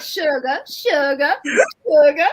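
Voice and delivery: "sugar" as "shuga", final r dropped; mom's "sugar". Retold or imitated. Remembering how mom said it, "sugar" as "shuga". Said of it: "the way she said".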